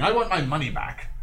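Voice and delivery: understated angry complaint; mild arguing. Acted. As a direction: demand it, holding back the yell. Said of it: "he's arguing".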